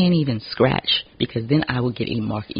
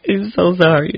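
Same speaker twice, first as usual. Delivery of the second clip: laughing apology; 6 semitones higher, 6 dB louder than usual. Real, not acted. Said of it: "did I just rant?".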